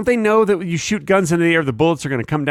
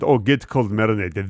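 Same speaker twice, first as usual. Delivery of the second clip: low waiter voice, fake Russian accent; 6 semitones lower than usual. Waiter repeating the order, fake Russian accent. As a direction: put on a deep mock Russian. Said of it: "drop the fake Russian accent".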